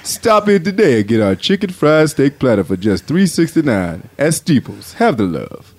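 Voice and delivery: lightly voiced ad announcer. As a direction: pitch the food in an easygoing voice. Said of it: "announcer voice is this".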